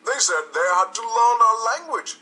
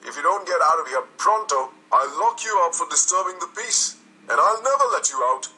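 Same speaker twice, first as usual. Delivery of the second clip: loud angry threats; yelling; 6 dB louder than usual. A narrator's reading. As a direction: bellow him out of the office. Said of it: "He yelled".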